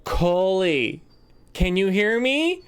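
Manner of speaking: high-pitched call, drawn out. Acted. Game master as woman testing talking stone, calling out. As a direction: call from the next room into a stone. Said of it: "She runs into the other room. She's like".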